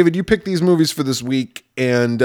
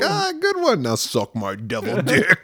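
the devil; 3 dB quieter than usual. Pretend. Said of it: "He's like".

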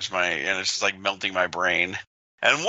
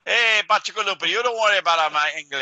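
mock tough guy; 7 semitones higher than usual. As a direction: bark it like a wiseguy. Mock tough-guy retort to friend.

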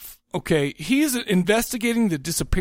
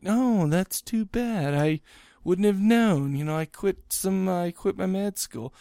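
detached. Retold or imitated. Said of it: "she's so detached".

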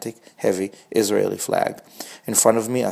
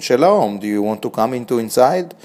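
put-on Israeli accent; 3 semitones higher, 4 dB louder than usual. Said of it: "in a thick Israeli accent".

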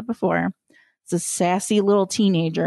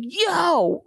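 called yo; 8 semitones higher than usual. Retold or imitated. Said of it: "he's like".

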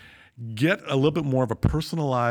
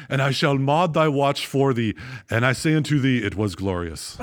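lightly mock-Shakespearean; grand olde English proclamation; hammy stage actor. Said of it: "And he replied".

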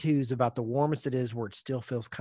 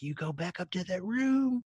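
higher, stern motherly order; stern wife; 8 semitones higher than usual. Retold or imitated. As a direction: send him back upstairs, firmly. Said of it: "she's like".

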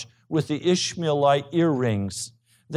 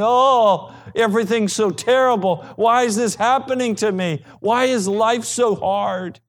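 mock wailing; 5 semitones higher than usual. Preacher imitating people in crisis crying out to God, mock wailing. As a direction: wail it in imitation of a complainer, dragging the last question. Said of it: "weeping and moaning and wailing and saying".

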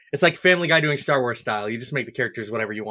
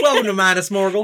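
higher, louder, laughing southern host; southern accent; 6 semitones higher, 5 dB louder than usual. Pretend. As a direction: welcome guests with a Southern twang. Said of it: "Witch King with a southern accent".

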